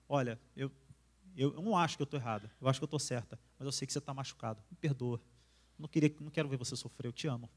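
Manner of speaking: wife apologizing to her hurt husband, soft and tender; tender apology. Retold or imitated.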